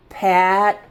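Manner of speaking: "Pat" with the T cut off, almost a D; stopped final T. Shown as a demonstration. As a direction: stop the mouth on the T of "Pat". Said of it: "Almost sounds like your mouth stops talking".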